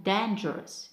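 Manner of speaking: "dangerous" as DAN-gerous; stress on first syllable. Shown as a demonstration. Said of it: "mark stress on the first syllable".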